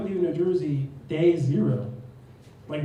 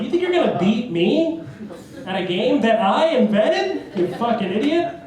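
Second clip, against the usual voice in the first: raised pitch, incredulous challenge; mock indignation; 6 semitones higher, 4 dB louder than usual. Prankster challenged at his own game, mock indignation. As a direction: scoff indignantly, punching up the questions. Acted indignant retort to texter.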